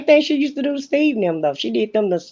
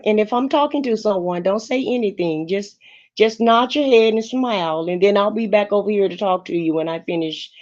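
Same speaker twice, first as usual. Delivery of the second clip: mocking Shirley; 2 semitones lower, 4 dB quieter than usual. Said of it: "What did she say to him".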